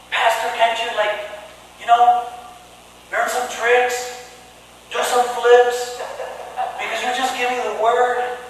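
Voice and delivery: lightly voiced picky congregant; mock complaining churchgoer. Churchgoer complaining to the pastor about the sermon, mock whine. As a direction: whine at the pastor, half in jest. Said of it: "people that complain about the word".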